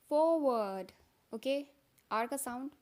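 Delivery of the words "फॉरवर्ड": फॉरवर्ड with no r sound, FAW-wuhd; British forward. Shown as a demonstration. Teacher demos the British forward. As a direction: drop both r sounds in फॉरवर्ड. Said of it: "British में बोलते हैं".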